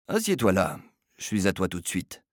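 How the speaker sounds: easy, friendly aside. Acted. Friendly word to an actor. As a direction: Filia turning kindly to a shaven actor. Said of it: "d'un ton amical".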